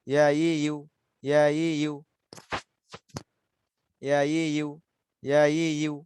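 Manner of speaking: "ইয়া, ই, ইউ" recited evenly with the tongue clear of the palate; teacher's drill of "ইয়া, ই, ইউ", each set measured and level; demonstrated articulation. Shown as a demonstration. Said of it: "একদম লাগেই না". (জিহ্বা তালুতে না লাগিয়ে "ইয়া, ই, ইউ" সমান সুরে উচ্চারণ)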